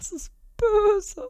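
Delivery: slow unvoiced whisper. Real, not acted. Streamer whispering a mock-shocked comment to chat. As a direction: breathe it out slowly, no voice.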